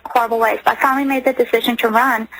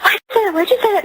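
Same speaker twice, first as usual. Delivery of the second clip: much higher, panicked repeated question; terrified daughter; 9 semitones higher, faster than usual. Retold or imitated. Mother voicing frightened daughter's panicked question, much higher. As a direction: echo the scared girl's frantic plea. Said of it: "she was like ... just terrified".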